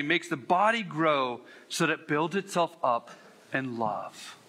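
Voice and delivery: measured reading of a Bible passage; sermon scripture read. Acted. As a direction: read it as the Word, deliberate.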